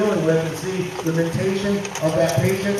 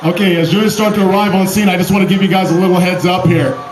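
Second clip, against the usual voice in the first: loud crowd announcement; announcer; 4 dB louder than usual. Real, not acted. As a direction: project to the stadium crowd. Announces mock crash to crowd.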